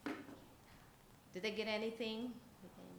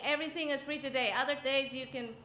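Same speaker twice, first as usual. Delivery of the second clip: put-on creepy child catcher; 4 semitones higher than usual. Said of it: "He's saying".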